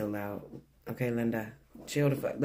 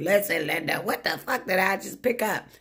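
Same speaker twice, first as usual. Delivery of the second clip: exasperated disbelief; 6 semitones higher than usual. Retold or imitated. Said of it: "I'd be frustrated".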